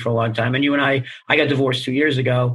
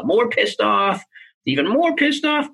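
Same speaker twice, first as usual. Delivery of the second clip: rising mock anger; 8 semitones higher, slower than usual. Shown as a demonstration. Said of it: "from the sadness to the pissed off".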